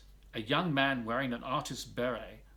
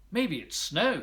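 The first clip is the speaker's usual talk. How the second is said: higher and louder with delight; excited; 4 semitones higher, 6 dB louder than usual. A narrator's reading. Toy bear finds white powder in the dark, excited. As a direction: gasp it out with wonder. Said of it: "he said excitedly".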